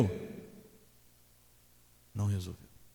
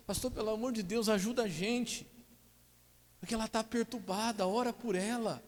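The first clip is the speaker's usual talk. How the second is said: much higher, pleading husband; 11 semitones higher, 3 dB quieter than usual. Retold or imitated. Husband begging pastor for help, high and pleading. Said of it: "Ele falava assim".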